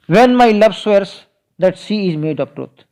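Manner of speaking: very slow, deliberate reading of the verse; unhurried verse reading; slow poem recital. Acted. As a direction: lay each word of the poem out for the class. Recites the sonnet line.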